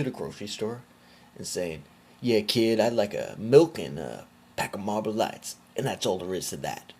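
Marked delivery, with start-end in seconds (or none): 2.2-6.9 mock trash-talker, starting loud; mocking imitation. Imagining him at the grocery store, mock imitation. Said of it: "talk like that".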